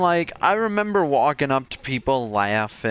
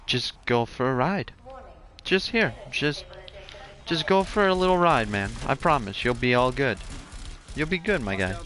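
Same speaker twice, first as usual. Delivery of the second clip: sincere reassurance. Retold or imitated. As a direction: coax like a caring buddy, retold. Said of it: "I could hear the sincerity in his voice".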